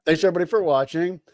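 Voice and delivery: quick cheerful sign-off; upbeat outro host. Shown as a demonstration. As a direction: rattle it off brightly. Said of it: "Tampa Neil, bring us home".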